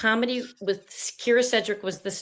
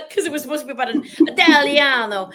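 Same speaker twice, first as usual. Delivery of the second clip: laughing; 8 semitones higher, 9 dB louder than usual. Real, not acted. Joking about Italian character.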